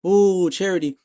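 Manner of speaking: high, loud sarcastic "ooh"; mock awe. Host waving away the charity excuse, mock awe. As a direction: pitch it way up, mockingly impressed.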